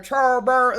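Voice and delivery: slow, slurred "charbur-", broken off; "charbur-" like a garbled Charles Barkley; tongue-tied attempt. Real, not acted. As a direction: get stuck halfway through "charbur-". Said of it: "trying to say Charles Barkley with an accent".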